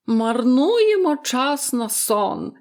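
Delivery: indignant exclamation. A narrator's reading. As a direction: repeat it drawn out, scandalized. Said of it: "вигукнула хвора". (обурений, здивований вигук)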